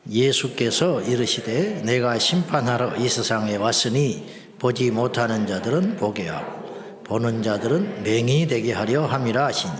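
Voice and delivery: steady recitation with drawn-out verse endings; scripture reading. Acted. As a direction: lead a congregation reading the verses together. Leads the congregation reading scripture aloud.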